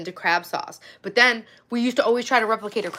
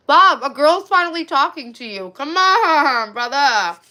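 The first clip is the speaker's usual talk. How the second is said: teasing laugh; 5 semitones higher, 6 dB louder, slower than usual. Real, not acted.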